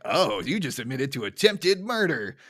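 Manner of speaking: slow, lazy cop drawl; a lightly voiced dopey police chief; Chief Wiggum impression. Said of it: "is like".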